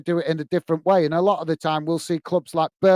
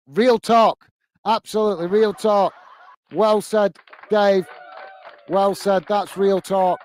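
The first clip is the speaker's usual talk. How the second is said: laughing approval; 3 semitones higher than usual. Real, not acted. Host laughs in approval of a fan's comment, laughing.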